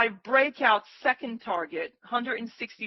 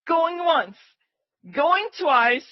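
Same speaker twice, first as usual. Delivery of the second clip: playful auctioneer call, raised; auctioneer countdown; 7 semitones higher, 5 dB louder, much slower than usual. Pretend.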